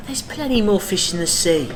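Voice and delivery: humorous Cockney rogue, pitched high; high, performed Cockney banter; Cockney London accent. Acted. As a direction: toss it out as a big, confident Cockney character. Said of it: "I am portraying a Cockney London accent".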